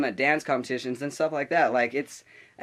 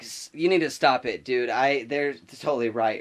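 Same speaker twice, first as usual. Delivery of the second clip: offhand, toned-down retold objection; casual objection. Classmate siding with the girls against the teacher, casual objection. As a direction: say it more conversationally, less forcefully. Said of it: "it was more like a".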